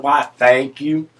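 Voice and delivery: slow, drawn-out Southern thanks; Southern accent. Acted. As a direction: lightly put on a slow Southern drawl. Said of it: "pick up the accent".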